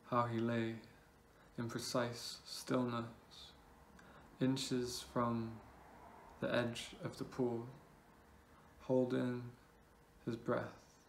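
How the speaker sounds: measured poem reading with long pauses between phrases; spaced-out, deliberate poetry recital. Acted. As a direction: recite it line by line, letting each phrase hang. Reads own poem aloud.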